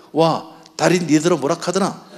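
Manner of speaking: slow, gruff Gyeongsang dialect puzzlement; Gyeongsang accent. Retold or imitated. Gyeongsang husband to Seoul wife, puzzled Gyeongsang accent. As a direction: Gyeongsang husband baffled by wife's hint. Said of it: "경상도 남편이 뭐라 그랬대요".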